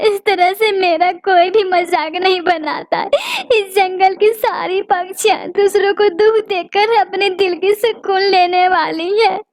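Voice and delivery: tearful lament to her husband; a childless bird weeping to her husband; crying. Acted. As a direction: let the sobs break through the words. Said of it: "रो रो कर सबसे कहती रहोगी".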